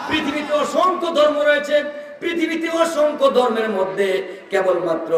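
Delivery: high-pitched sermon proclamation; preaching. Real, not acted. Preacher telling the crowd about the world's religions, high preaching.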